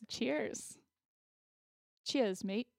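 put-on a lightly done, jokey Australian accent; mock Australian accent. Toasting the cohost over an Aussie-themed drink, in a playful mock Australian accent. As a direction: toast like a hammed-up Aussie bloke, half-hearted Australian accent. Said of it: "That was an amazing Australian accent".

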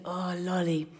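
rough imitation of a foreign accent; a loose, apologetic attempt at an accent; Borat. Woman imitates her Greek date's voice message, rough Borat-like accent. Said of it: "he sounded a bit like Borat".

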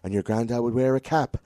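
hammed-up slow revelation; mock psychic reading. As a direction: imitate a psychic stretching out vague details. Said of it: "if it was an old, old Irish lad, you'd be like".

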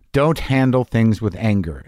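slow, calm repeat of the advice. Retold or imitated. Recalling the gate worker's advice, slow and calm. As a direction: let the words land slowly and thoughtfully. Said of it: "the profundity of it".

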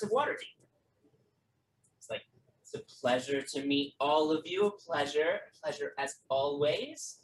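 lightly voiced politician. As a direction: play a smooth politician showing off his friends. GM voices Lance introducing guests.

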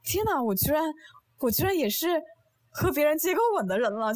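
high, giddy with a laugh; amazed laughing disbelief. Retold or imitated. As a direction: gasp it out, half laughing. Retelling her stunned inner thought.

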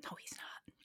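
barely audible whisper; hushed, whispered correction; whispered aside. Real, not acted. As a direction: whisper the denial under your breath. Hushed denial of a joke.

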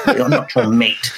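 slow, lightly posh put-on voice; a gentle send-up of a posh manager; half-hearted posh impression; mock posh boss. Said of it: "by some posh".

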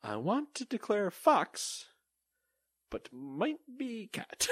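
high, slow pompous declaration; declaring voice. Retold or imitated. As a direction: announce it grandly, drawn out. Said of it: "And I'm like".

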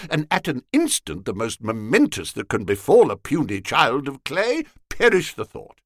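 high, indignant lecturing voice; a young surgeon scolding the rowdy company; stern rebuke. A narrator's reading. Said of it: "delivered himself of this rebuke".

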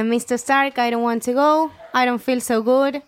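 put-on a mild take on a scared kid; imitating Peter. Peter fading in Tony's arms, mild scared plea. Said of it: "tenemos a mi hijo".

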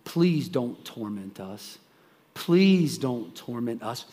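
slow, low-pitched plea; understated, laboured pleading; retold begging. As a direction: imitate a man begging, drawing the words out. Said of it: "he begins to beg Jesus".

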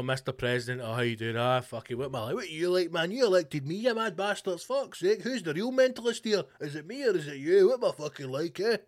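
lightly voiced Trump, cheeky and self-mocking, rising; hammed-up talk show Trump laughing at himself. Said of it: "giving it out, you know".

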